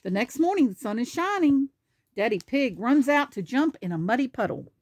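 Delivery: lively picture-book narration; animated storybook reading; reading to children. Acted. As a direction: read it out clearly for a small child. Reads picture book aloud.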